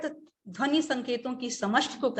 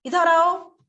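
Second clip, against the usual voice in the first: loud, higher-pitched angry order; 6 semitones higher, 7 dB louder, slower than usual. Shown as a demonstration. Mother calls her son in anger, sharp and loud. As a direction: summon the child crossly, raised voice. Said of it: "जब वो गुस्से में बोलेगी".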